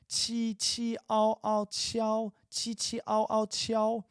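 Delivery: qi, ao, then qiao pitched high with the i clearly heard; Chinese syllable qiao. Shown as a demonstration. Teacher showing students the i in qiao, high and clear. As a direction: let the i ring in qiao. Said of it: "You hear the I?".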